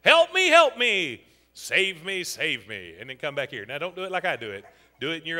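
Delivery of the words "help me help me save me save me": hammed-up plea for rescue; excited cry for help. Shown as a demonstration. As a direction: cry out slowly, then let it fall away. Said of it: "in a very excited way".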